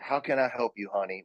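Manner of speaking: imitated Texan lilt, lightly done; sweet Texan accent. Casting director answering a caller, imitated sweet Texan accent. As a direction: put on a hint of sweet Texas. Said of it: "with a sweet Texan accent".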